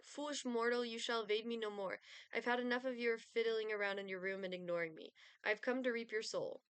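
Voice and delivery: lightly voiced menacing Grim Reaper; a hint of a doom-laden death figure; cold rasping evil emperor. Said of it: "Grim Reaper".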